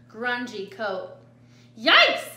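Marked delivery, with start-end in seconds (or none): 1.8-2.2 high, loud startled yip; yipped. A narrator's reading. Jilly sees the drooling coyote, yipping in alarm. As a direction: yelp it high and quick. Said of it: "yipped Jilly".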